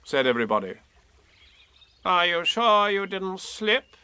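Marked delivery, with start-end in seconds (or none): 2.0-4.0 wisely. A narrator's reading. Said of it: "asked Rabbit wisely".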